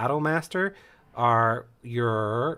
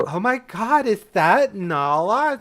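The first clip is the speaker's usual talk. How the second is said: astonished classmate; 8 semitones higher, 6 dB louder than usual. Acted. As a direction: play an amazed schoolmate, pitched way up. Classmate calls out in background.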